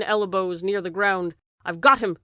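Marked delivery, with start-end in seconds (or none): 1.6-2.2 loud triumphant yell; screaming. A narrator's reading. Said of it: "screamed Kemp".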